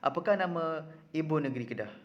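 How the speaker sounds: "Apakah nama" lifted as if asking a friend, "Kedah" falling; demonstrated question tune from "Apakah" down to "Kedah"; question intonation. Shown as a demonstration. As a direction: ask it clearly, letting "Kedah" drop. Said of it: "Contoh, kamu nak tanya kawan kamu".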